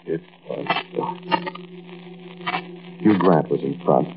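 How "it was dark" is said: breathy near-whisper; hushed whisper. A narrator's reading. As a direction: drop to a hush. Hushed line in tense narration.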